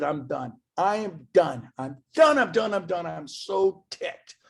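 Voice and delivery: rising angry repetition; fed up. Retold or imitated. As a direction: done with it all, building to a peak. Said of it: "So I said".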